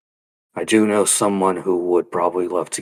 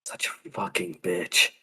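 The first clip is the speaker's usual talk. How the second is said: unvoiced muttered whisper; too quiet; 3 semitones lower, 10 dB quieter than usual. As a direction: whisper it under your breath. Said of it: "You need to speak up more".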